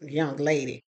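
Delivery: scornful echo. Retold or imitated. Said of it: "And I'm thinking, first of all, I'm not a".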